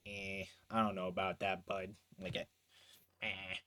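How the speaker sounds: low, quiet noncommittal grumble; unsure, reluctant. Acted. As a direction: hedge softly, not convinced. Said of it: "Not so sure about it?".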